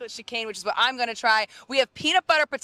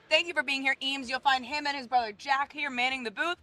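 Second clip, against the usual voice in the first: talking through a mouthful; words round a bite of ice cream; mouth full; 4 dB quieter than usual. Real, not acted. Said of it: "I shouldn't be talking with my mouth full".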